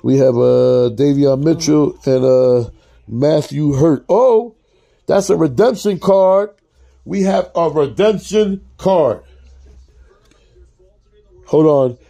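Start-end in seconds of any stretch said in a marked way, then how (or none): 4.1-9.2 sudden high surprise at the find; surprised. Real, not acted. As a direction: react like you just found a prize. Surprise at finding redemption card.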